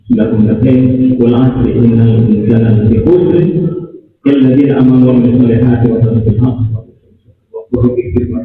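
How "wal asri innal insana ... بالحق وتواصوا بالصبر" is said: low, even recited Arabic verse; Quran recitation. Acted. Preacher closing his sermon with a Quran verse, low recitation. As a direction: recite scripture in a low monotone.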